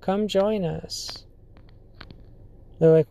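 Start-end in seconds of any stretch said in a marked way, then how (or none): 0.0-1.2 slow, soft, beckoning voice from the dark; a mildly spooky slow invitation; eerie sewer voice. Retold or imitated. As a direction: lure them in, quietly and slowly. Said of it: "hear this voice that says".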